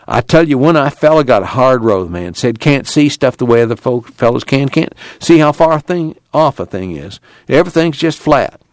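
a hint of a put-upon laborer; complaining one-eyed man. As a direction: plead your hard lot, pitch a bit up. One-eyed man pleads his hardship.

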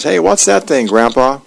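put-on curious kid. Curious boy Nelson asks.

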